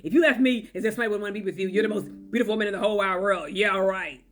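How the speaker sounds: biting, sneering mock sarcasm; aggressive sarcasm. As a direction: sneer it like a cruel partner mocking her. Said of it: "aggressive sarcasm".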